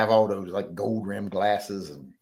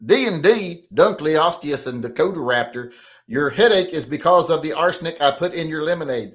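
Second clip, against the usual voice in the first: loud, higher read-out voice; comment read-out; 6 semitones higher, 7 dB louder than usual. Acted. Host reading a viewer's message to the audience, loud read-out.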